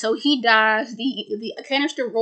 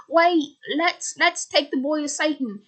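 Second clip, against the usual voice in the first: eager character voice; 4 semitones higher than usual. Retold or imitated. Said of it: "she says".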